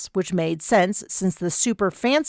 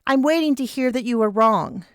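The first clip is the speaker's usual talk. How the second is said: lightly higher, teasing demand; a hint of pitched-up Vanessa; Vanessa voice, expectant; 5 semitones higher than usual.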